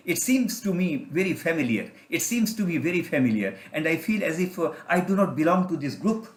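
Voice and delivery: slow, awed English musing; dreamy slow wonder; slow wondering inner voice. Acted. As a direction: let the eaglet slowly realise. Eaglet's inner voice.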